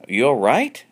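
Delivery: concerned. Acted. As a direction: check on a hurt friend. John checks Alan.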